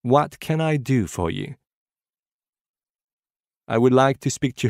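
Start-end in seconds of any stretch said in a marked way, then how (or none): 0.0-1.5 What can I do for you? said slower, words spaced; slower repetition. Shown as a demonstration. Teacher modelling the phrase slowly for repetition. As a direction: give it again, slower and clearer. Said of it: "Écoutez et répétez après moi".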